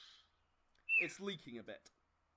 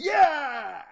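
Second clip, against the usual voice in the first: much louder, higher clumsy mock yelp; botched yelp; 9 semitones higher, 18 dB louder than usual. GM acts out the fumbled fake pain yip, loud and high. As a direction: blurt a badly faked pain yip. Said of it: "You actually go".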